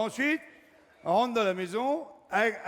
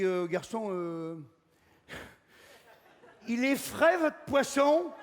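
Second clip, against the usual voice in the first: laughing customer question; 3 semitones higher, slower than usual. Retold or imitated. Customer asking about fish.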